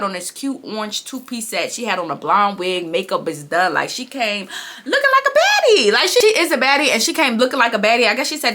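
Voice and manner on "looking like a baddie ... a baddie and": laughing high through the line. Real, not acted. Vlogger laughs describing a castmate dressed like a baddie. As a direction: giggle out the praise.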